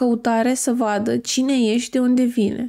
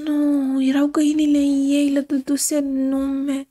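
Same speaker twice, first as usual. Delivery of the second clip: breathless whispered "Nu"; shocked whisper; slower than usual. Real, not acted. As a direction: gasp it out under your breath. Aghast at the dead hens.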